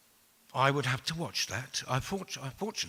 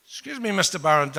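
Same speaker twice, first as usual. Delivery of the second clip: put-on higher, polite Edinburgh accent; 6 semitones higher, 6 dB louder than usual. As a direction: imitate a courteous Edinburgh Scot. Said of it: "a very nice Edinburgh accent".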